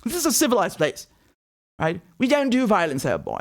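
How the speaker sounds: put-on voice imitating a condescending pundit; sneering mock-pundit imitation; mocking TV commentator. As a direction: mimic him with exaggerated condescension. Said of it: "that's how they talk about us".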